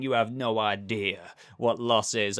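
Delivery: a lightly put-on American accent, self-mocking; bad Joel accent. Vlogger mimicking Joel's line in a weak American accent. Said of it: "I'm a terrible example there in that accent".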